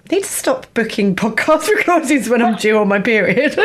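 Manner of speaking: laughing through a self-mocking line; laughing self-quote. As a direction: tell it on yourself, giggling. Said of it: "I was like".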